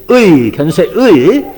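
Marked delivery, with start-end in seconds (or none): 0.1-0.5 의 eased out slowly, gliding from 으 into 이; slow careful pronunciation. Shown as a demonstration. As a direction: draw out both vowels of 의. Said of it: "very slowly".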